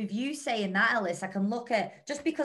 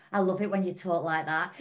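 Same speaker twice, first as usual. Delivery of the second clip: laughing quote; 3 semitones lower than usual. Retold or imitated. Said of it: "when Ellis goes".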